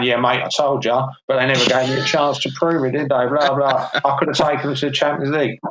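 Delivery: put-on a light, half-hearted Australian accent; mock Australian bloke, only lightly put on; bad Australian accent. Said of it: "That's my really shit Australian accent".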